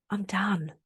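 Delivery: breathy whisper, letting go; whispered resolve. Real, not acted. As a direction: whisper it to yourself, finally finished. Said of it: "I am so done with all of that".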